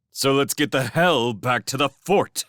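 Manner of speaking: urgent order. A narrator's reading. Felix tells the scouts to retreat to the fort, urgently. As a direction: push them to get moving.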